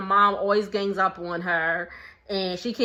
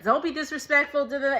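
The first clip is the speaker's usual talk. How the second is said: lightly mimicked telling-off, pitched up; mock the mom's scolding, tailing into babble; 4 semitones higher, faster than usual. Vlogger repeating the offended mom's line, light mock scolding. Mocking Susan's scolding a second time.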